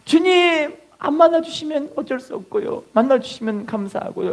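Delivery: mock prayer, take it or leave it; high-pitched, noncommittal acted plea; half-hearted prayer. Mimics a half-hearted, indifferent prayer.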